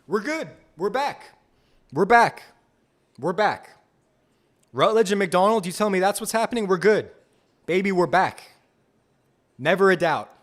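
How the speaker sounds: high, loud triumphant cheering; excited celebration. Real, not acted. Streamer cheering his team's pick to chat, excited shouts. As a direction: shout it like your team just won.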